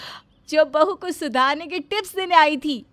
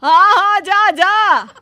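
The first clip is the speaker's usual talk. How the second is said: hurried yes; 5 semitones higher, 8 dB louder, slower than usual. Acted. Mother-in-law hurriedly loud.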